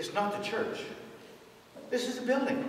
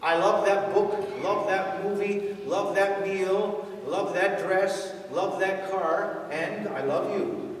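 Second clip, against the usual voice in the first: overused gushing love; slower than usual. Retold or imitated. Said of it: "We, we overuse it".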